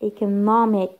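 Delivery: "economic" with NOM stressed; stress on second-last syllable. Shown as a demonstration. Teacher showing words ending in -ic, penultimate stress on "economic". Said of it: "Second from the end".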